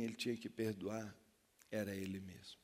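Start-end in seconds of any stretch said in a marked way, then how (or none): 1.7-2.6 breathy whisper, falling. Real, not acted. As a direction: let it drop to a whisper. Whispered revelation.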